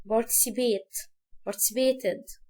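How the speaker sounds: participate slowed, each syllable apart. Shown as a demonstration. Teacher slowing down participate for students. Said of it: "نقول الحاجة مقاطع".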